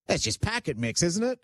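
light Australian accent voiced by sister; a hint of an Australian accent. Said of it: "In her Australian accent".

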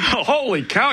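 amazed. Real, not acted. Host reacting to co-host being twenty-five, amazed. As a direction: send it way up in surprise.

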